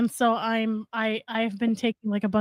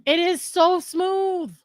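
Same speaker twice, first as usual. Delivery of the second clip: excited; 6 semitones higher, slower than usual. Real, not acted. Raving about mead again.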